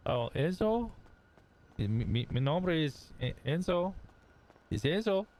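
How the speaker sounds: hesitant, high-pitched fake Hispanic accent. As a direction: introduce yourself haltingly in a put-on Hispanic accent. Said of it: "fully committed to the Hispanic bit".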